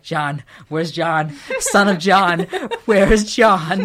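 hammed-up cat crying for its owner, breaking into laughter. Voicing a cat waiting by the door, mock crying. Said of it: "wait by the door crying".

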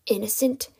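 contained, questioning disbelief; incredulous echo. Acted. Kidnapper echoes captive's accusation, restrained disbelief.

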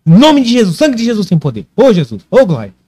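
high frantic prayer shout; scared horror game streamer. Retold or imitated. Praying in terror at the ghost. (oração desesperada)

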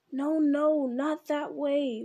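high, loud, slow wail. Acted. Smeagol wailing at his other self, high and loud. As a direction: wail it out in desperate protest. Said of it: "wailed Schmeagol".

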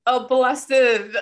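drawn-out delighted praise; gushing. Real, not acted. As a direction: savor it like a gift. Gushing over grocery delivery.

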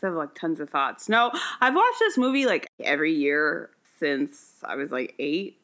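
high and rambling, stoned voice. Real, not acted. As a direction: talk like you're stoned. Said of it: "Sorry, I'm really high thinking".

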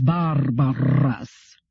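"barbarous" drawn out with both R's heavily rolled. A narrator's reading. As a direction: trill both R's of "barbarous" phenomenally long. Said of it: "He rolled both R's phenomenally".

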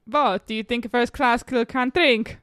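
slow, attempted Transylvanian accent. Player giving a line to guess, Transylvanian accent. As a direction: draw it out in a mock Transylvanian accent.

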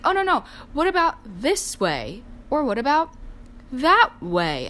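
a sing-song, hammed-up mom; imitating fussy mom. Mom fussing over flower angles, high and sing-song. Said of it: "She's like".

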